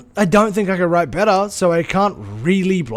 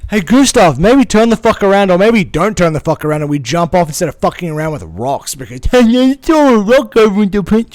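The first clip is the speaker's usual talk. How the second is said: louder mock yell at Gustav; exasperated yell; 4 semitones higher, 8 dB louder than usual. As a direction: shout a frantic warning over his shoulder. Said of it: "she can't see him and be like".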